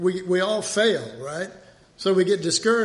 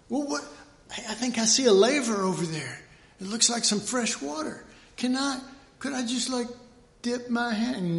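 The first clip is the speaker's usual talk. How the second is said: curious pleading visitor; 5 semitones higher than usual. Retold or imitated. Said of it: "that altar said".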